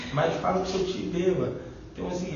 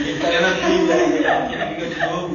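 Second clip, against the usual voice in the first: falando rindo; 3 semitones higher, 8 dB louder than usual. Real, not acted. Fala ainda rindo.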